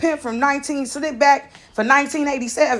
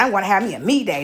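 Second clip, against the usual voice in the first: a lower, quick imitation of dad; dad's voice lightly imitated; 6 semitones lower, faster than usual. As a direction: toss it off like a laid-back dad. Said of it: "he said".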